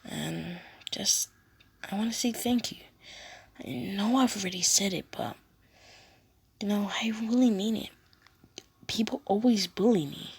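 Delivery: put-on a shy girl confiding; girl's voice. Ochako thanking Deku and confiding about being bullied.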